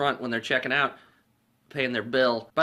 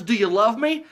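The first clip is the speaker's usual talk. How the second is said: higher, sweet question; Mary voice; 9 semitones higher, 6 dB louder than usual. Retold or imitated. Mary asking Lloyd in the daydream, sweet voice. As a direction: ask it dreamily.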